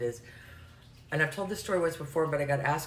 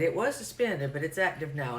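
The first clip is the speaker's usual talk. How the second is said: imitated Arkansas caller; lightly voiced Arkansas accent; heavy Arkansas accent. Caller explaining her license to the agent, Arkansas accent. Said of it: "just really heavy accent for me".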